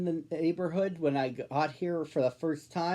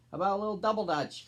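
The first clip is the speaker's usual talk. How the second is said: calling out; 7 semitones higher, much faster than usual. Acted. Sister calls to Anna across the playground, high eager call. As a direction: sing it out to a friend. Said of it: "called Sister".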